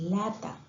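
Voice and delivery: lata, with an l where the r of rata goes; child's substitution. Shown as a demonstration. Teacher showing a child's r-to-l swap, lata. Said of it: "en lugar de decir rata".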